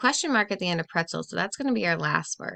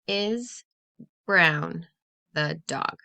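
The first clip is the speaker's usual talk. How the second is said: reading the wrong order; 3 semitones lower, much slower than usual. Shown as a demonstration. Teacher testing a wrong sentence, halting and unsure. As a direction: sound out the jumbled words, a bit puzzled. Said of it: "That does not make sense".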